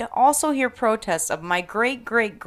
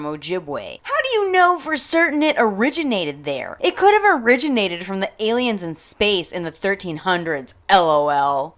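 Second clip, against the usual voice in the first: reading Becky's comment. Retold or imitated. Reading the white commenter's reply, as a lightly voiced smug ranter. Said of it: "Here is Becky's response".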